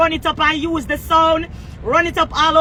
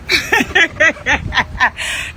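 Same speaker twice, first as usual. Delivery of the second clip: long, higher-pitched laugh; 4 semitones higher than usual. Real, not acted. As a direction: crack up at your own jab. Laughs at own insult.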